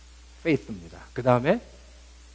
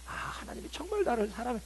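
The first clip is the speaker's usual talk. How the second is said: inner realization; 12 semitones higher, 5 dB quieter than usual. Pretend. Realization quoted in sermon.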